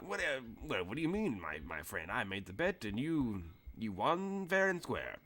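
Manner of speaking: lightly voiced old wrestler, puzzled; Boston Brook. Old wrestler to foreman insisting on the bet, lightly puzzled.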